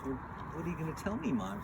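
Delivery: a hint of a child questioning Mom; Little Red Riding Hood. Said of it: "And Little Red says".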